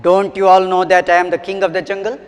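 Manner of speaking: angry lion proclaiming loudly; loud, indignant storybook lion. A narrator's reading. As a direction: boom it out as an offended king. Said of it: "he said in a loud voice".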